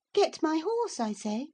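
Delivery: high order with GET pushed up; "Get my horse" snapped up at the end, impatient; impatient girl. A narrator's reading. Cathy repeats her order to Hareton, impatient. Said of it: "repeated order, impatient".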